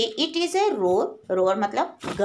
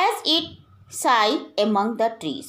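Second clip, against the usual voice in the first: slow poem recitation; much slower than usual. Acted. Teacher reading the poem line to her class, slow and measured. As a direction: draw out each word slowly, recitation style.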